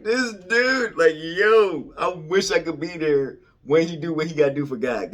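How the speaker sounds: loud, high hyped-up heckling; cracking-up friends. Retold or imitated. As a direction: imitate rowdy friends egging each other on. Voices friends cracking up at him.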